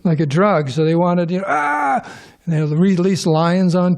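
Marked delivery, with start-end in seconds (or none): 1.5-2.0 high-pitched "ah" of a thrilled crowd; mock crowd cry. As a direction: imitate a jolted arena crowd, high. Mimics arena crowd wanting their jolt.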